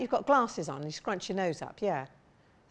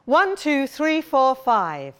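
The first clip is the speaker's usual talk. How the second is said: projected speech; 5 dB louder, much slower than usual. Shown as a demonstration. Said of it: "It'll be something like".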